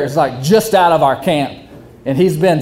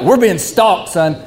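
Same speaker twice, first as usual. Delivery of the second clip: the wrong way; 2 semitones higher than usual. Shown as a demonstration. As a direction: say it as a simple warning to your son. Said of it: "he didn't say it like".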